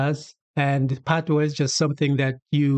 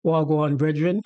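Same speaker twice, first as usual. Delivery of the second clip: Jamaican patois greeting. Shown as a demonstration. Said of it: "you might say to a Jamaican".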